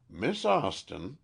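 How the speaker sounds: slow, gentle address; old man gently addressing the frightened girl; kindly. A narrator's reading. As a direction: reach out to her kindly. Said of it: "he said kindly".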